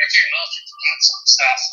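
muffled, bubbling bad connection; underwater gurgling voice. Real, not acted. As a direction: sounds like talking underwater. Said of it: "you sound like you're underwater right now".

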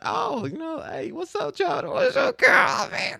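high, slow, showy pickup-line voice; exaggerated smooth talker voice. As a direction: ham up a smooth talker greeting girls. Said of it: "I was like".

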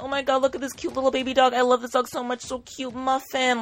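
put-on high, fast, gushing baby talk; gushing at a dog. Retelling how she gushed over a cute French bulldog, high and fast. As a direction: coo at a cute puppy you can't resist. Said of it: "literally yelling at this dog".

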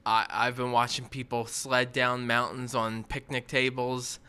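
earnest contestant confessional; reality tv confessional. Pretend. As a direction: play it like a sincere reality show contestant. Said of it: "what would be your story if you're, like, being interviewed".

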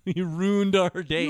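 lightly imitated Canadian girl, drawn out; little Canadian girl. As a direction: slowly complain like a Canadian kid. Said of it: "when the little Canadian girl goes".

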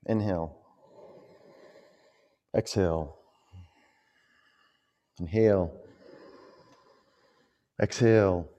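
ocean throat breathing cues; Ujjayi breath. Shown as a demonstration. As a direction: breathe audibly through the throat, Ujjayi style. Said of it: "Let's create Ujjayi breath together".

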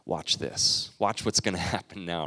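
a knowing smirk you can hear; smirking confidence. Retold or imitated. Moses tells the Israelites to watch, smirking. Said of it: "he's got a smirk on his face".

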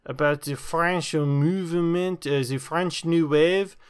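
put-on lightly held French accent; a fading mock French voice. The French guest starting to answer film questions in a fading accent. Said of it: "let me speak in my American voice".

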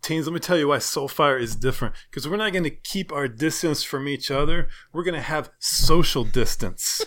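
put-on rally the teens like a corny youth pastor. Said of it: "Please use the youth pastor voice".

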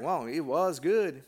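slow, laughing mock-innocent mom. Mother telling her son how the bird tasted, slow and laughing. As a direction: let the laugh spill through her slow praise. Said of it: "then she goes like".

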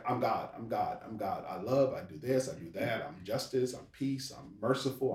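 soft, low-key recited list; idle self-declaration. Acted. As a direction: list it off quietly, almost to yourself. God idly listing his attributes.

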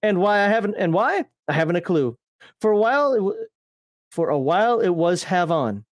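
lightly put-on Australian storyteller; mild mock-Aussie lilt; Australian accent. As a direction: read it out in a half-hearted Australian accent. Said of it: "I hate speaking Australian".

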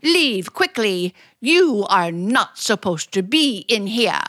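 crying her heart out in a mock sob; demo crying. Shown as a demonstration. Drama coach demonstrating a tearful line. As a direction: show her how a sobbing heroine sounds. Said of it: "I was showing you how to cry".

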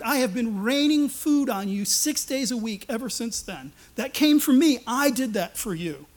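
preacher speaking as God, rising and insistent; voicing God. Preacher voices God reminding the freed people. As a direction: proclaim each deed as God himself.

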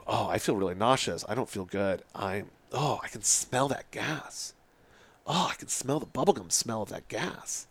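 imitating a queasy person, softly; mildly woozy, subdued complaint; getting sick. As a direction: groan it out gently, as if nauseous. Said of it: "then she starts getting sick".

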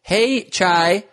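very high cooing voice; gushing Khloe. Retold or imitated. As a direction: coo it sweetly and high. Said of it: "she tweeted".

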